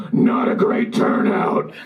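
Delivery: big, slow stage whisper that carries; drawn-out, voiceless mock whisper at full volume; failed whisper. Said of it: "he tries to whisper".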